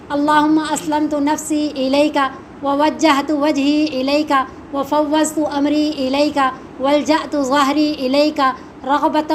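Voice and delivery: slow, measured Arabic recitation; prayer recitation. Shown as a demonstration. Teacher reciting the Prophet's bedtime dua for learners, slow measured recitation. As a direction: recite the dua phrase by phrase, evenly.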